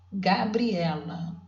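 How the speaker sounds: slow, drawn-out Gabriela, each syllable apart. Shown as a demonstration. Teacher sounding out the name for pupils, slowly syllable by syllable. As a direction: stretch out Gabriela so the class can count the syllables. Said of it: "vamos ver quantas sílabas tem?".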